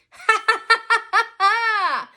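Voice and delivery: loud, high acted laugh; hammed-up ha-ha laughter; mock boys' laughter. A narrator's reading. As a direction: laugh out each "ha" gleefully. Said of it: "laughed Mason".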